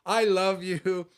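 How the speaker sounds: a hint of a fond grandma greeting him; sweet old lady. Quoting the church lady who hugs him, lightly voiced fond old lady. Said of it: "she smiles and she says".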